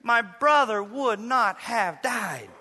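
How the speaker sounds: Martha's pained, slow plea to Jesus; a grieving sister's loud cry of Lord, then slowing; disappointed plea. Acted. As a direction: let the disappointment sit in every word. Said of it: "You hear the disappointment in Martha's voice".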